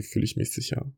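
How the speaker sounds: a quiet, safe whisper; hushed whisper. Real, not acted. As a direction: whisper it, almost breathless. Guided feeling exercise, calm reflection.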